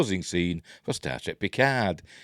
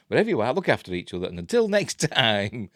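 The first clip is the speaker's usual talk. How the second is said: quick retake. Shown as a demonstration. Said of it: "I'm useless".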